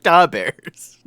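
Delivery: high and loud hammed-up Chicago "Da Bears"; mock Chicago accent. Streamer quoting the Pope meme from TikTok, in a hammed-up Chicago accent. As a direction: belt out "Da Bears" like a Chicago sports fan. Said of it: "the Pope being like".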